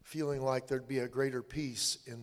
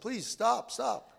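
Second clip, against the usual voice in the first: higher, louder call to stop; yelling after them; 9 semitones higher, 4 dB louder, much slower than usual. Retold or imitated. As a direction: call out to the fleeing soldiers. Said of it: "and I yelled".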